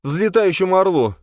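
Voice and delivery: high, loud outraged cry; indignant exclamation. A narrator's reading. Jocasta to Virgil, outraged at the eagle's name. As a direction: fling his name back in disbelief. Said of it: "воскликнула она".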